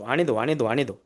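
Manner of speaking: lightly sing-song truck helper's call; repeated reversing call, pitch rising and falling; truck helper's guiding call. Retold or imitated. Helper guiding a reversing truck driver, lightly imitated sing-song call. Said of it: "तो अ-, असा हात करतो".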